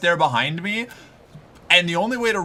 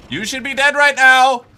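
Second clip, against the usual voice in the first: louder, higher exasperated outburst; 7 semitones higher, 7 dB louder than usual. Real, not acted. Streamer exasperated that the enemy survives. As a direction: demand it die, fed up.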